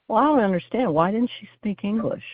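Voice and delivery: lightly imitated in-law asking why nobody spoke English; plain-spoken mother-in-law. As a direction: mildly voice the baffled mother-in-law. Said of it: "very plainly looks at me and goes".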